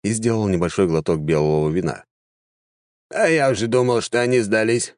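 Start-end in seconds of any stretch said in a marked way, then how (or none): 3.1-4.9 higher, lightly amused remark; a touch of smug amusement, pitched up. Acted. Second mage pleased the enemy did not surrender, lightly amused. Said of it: "второй тоже усмехнулся".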